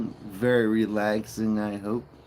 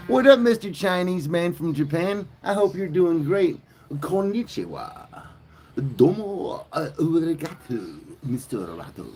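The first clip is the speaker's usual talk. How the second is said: excited greeting; 7 semitones higher than usual. Acted. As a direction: greet him like an old buddy. Greeting a Japanese viewer.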